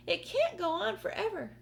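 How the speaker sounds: high, loud cry of disbelief; yelling aunt. Acted. Aunt Spiker yelling as the peach keeps growing, high loud cry. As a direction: cry it out in alarm. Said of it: "Aunt Spiker yelled".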